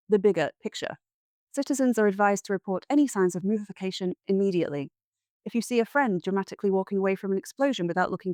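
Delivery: formal, crisp news read; news anchor. Acted. Spoof news bulletin read.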